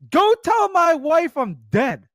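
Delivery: high, slow mock husband; cheating husband, hammed up; imitating a husband.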